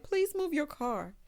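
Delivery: mock tearful plea. Host retells Andy begging Gary, mildly tearful. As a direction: plead slowly, imitating someone close to tears. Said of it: "So she starts crying".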